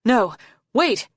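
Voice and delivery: loud, high, panicked yell. A narrator's reading. Arctic trying to halt his own attack, yelling. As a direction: yell to call it off. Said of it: "Arctic yelled".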